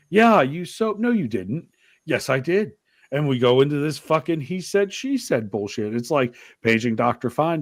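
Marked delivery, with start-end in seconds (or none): 0.1-2.7 high, mock-kid back-and-forth; arguing with son. Father and son bickering over the shower, pitched up. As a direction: act out the shower spat, pitch up. Son denies, dad retorts.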